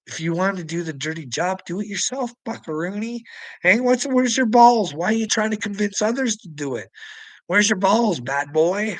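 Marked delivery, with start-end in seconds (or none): 3.6-8.9 higher, louder jeering challenge; mock taunt. Real, not acted. Challenging Uncle Will's nerve, higher and louder. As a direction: jeer at him, pitched up and loud.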